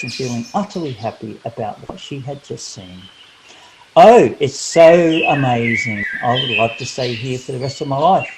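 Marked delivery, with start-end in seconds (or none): 4.0-8.3 loud delighted oh, then fast; excited exclaim. Acted. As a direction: gush with joy. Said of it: "exclaimed Karen".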